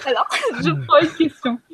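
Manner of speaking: laughter still in the voice; catching breath after laughing; after laughing hard. Real, not acted. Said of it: "Je pleure de rire".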